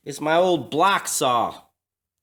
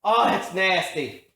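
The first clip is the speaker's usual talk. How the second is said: disgusted; slower than usual. Real, not acted. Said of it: "never smelt one quite that bad".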